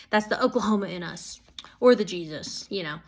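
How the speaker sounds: breathy whispered joke; half-joking whispered aside. Real, not acted. Aside joke about hugging.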